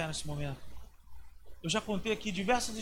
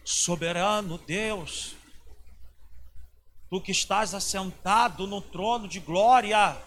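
slow, solemn and grandiose, the way some people pray; mock-solemn prayer voice; pompous formal prayer; 4 dB louder, slower than usual. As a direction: intone it like a lofty churchy invocation. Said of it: "eu não vou pra ele e falo assim".

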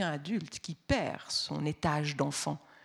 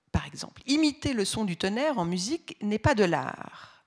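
reading a quotation; 2 semitones higher than usual. Retold or imitated. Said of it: "Je cite".

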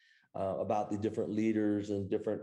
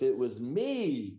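stretched-out mock boast; retold playful boast; 3 semitones higher, much slower than usual. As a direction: imitate the daughter claiming credit, drawing it out. Retelling daughter's proud punchline.

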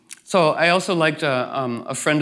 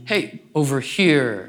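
inviting call; slower than usual. Shown as a demonstration. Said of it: "And again, guiding".

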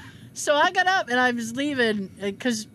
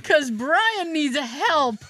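slow deadpan; 3 semitones higher, 4 dB louder, much slower than usual. Retold or imitated. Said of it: "'Cause Brian".

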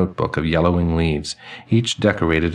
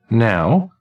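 put-on chiming old man; 4 semitones higher than usual. Same elderly man voice.

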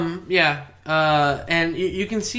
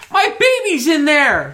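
higher, louder, slower frantic cry; panicked parent; 9 semitones higher, 6 dB louder than usual. Acted. Townsperson screaming about baby.

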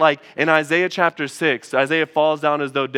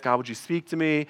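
softer, hushed plea to God; student praying alone, softer; quiet prayer; 6 dB quieter than usual. Retold or imitated. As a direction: pray it softly, almost to yourself.

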